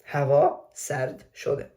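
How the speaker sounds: slow, spaced "Hava sard shode" settling downward; unhurried falling statement on "Hava sard shode"; soft falling intonation. Shown as a demonstration. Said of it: "soft falling intonation in statements".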